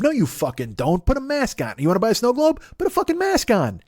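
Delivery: shouting down the maskless shopper; exasperated yell. Real, not acted. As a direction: scream it at them. Yelling at the shoppers.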